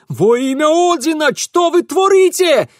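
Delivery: high, loud horrified wail; Ingvar wailing. A narrator's reading. Ingvar wails at the wreckage behind them, high and horrified. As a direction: howl it in horror. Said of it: "вопил Ингвар".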